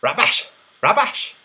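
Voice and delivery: "Rubbish" in a put-on Scottish accent. Shown as a demonstration. Streamer testing how to say it, Scottish accent. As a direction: try out a Scottish accent on one word. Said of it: "That was my Scottish accent".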